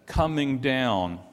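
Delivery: "coming down" set apart, drawn out; key word stressed. Shown as a demonstration. Preacher pointing out the psalm's key word, stressed "coming down". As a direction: lean on "coming down" so they hear it. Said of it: "You hear it? Do you see that?".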